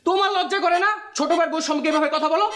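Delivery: heated comeback to a brother; shouting back. Acted. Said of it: "তুই shout করিস কার সামনে?".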